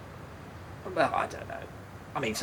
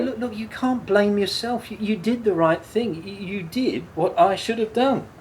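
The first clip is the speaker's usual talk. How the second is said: high, louder, stumbling over the words; insistent, pleading comfort; urgent reassurance; 8 semitones higher, 5 dB louder than usual. Acted. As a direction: rush in to stop her blaming herself.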